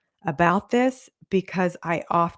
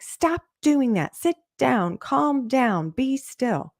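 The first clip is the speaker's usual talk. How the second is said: put-on higher, mildly raised scolding of a child; mock parent scolding; 5 semitones higher, slower than usual. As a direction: play the frazzled parent barking orders. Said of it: "even when you're like".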